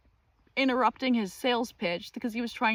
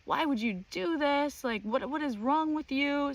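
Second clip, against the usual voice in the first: mock angry neighbor; 5 semitones higher than usual. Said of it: "he comes at us like".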